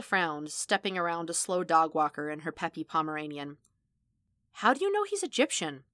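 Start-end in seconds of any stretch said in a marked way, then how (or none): 4.5-5.8 ask, caught off guard; surprised question. A narrator's reading. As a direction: pitch jumps up, questioning. Vanessa questions.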